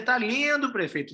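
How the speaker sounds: a touch of a fawning yes-man; lightly voiced sycophant praising the boss; flatterer. Flatterer praising the mayor, lightly fawning and high. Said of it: "o puxa-saco vai dizer".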